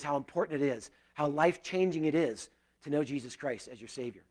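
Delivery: a gentle model prayer, hushed; spoken prayer. Acted. Prays aloud as model prayer.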